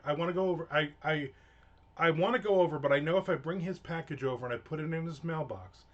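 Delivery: mildly heated threat; half-joking vow to punch him; retold anger. Telling his wife he'll punch the neighbor, mock-angry. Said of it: "That's how angry I am".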